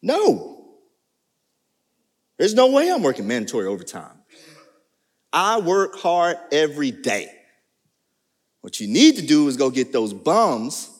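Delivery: loud, defiant refusal to the boss; mock outraged employee talking back to the boss; indignant coworker. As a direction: protest like the put-upon hard worker. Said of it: "They might say something like this".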